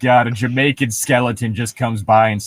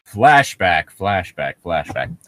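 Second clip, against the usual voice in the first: fading flashback echo; 6 semitones lower, slower than usual. Pretend. Hosts mocking a creepypasta announce the flashback, fading echo. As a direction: let the word echo away like a dream fade.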